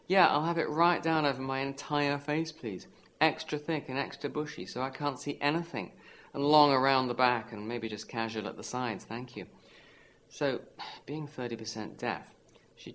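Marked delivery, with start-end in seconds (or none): 0.1-9.5 mock haircut customer. Imagined customer ordering a silly haircut.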